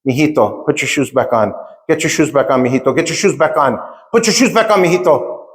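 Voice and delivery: imitated mother's urging, rising in pitch at the end; insistent mom, repeating it with mounting urgency; retold urging mother. Mother telling her five-year-old to put shoes back on, urgent. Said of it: "she's saying in Spanish and in English".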